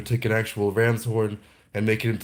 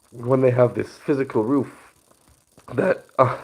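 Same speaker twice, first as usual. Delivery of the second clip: short of breath, pushing through; winded, catching breath between words. Real, not acted. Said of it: "I don't know why I'm so out of breath".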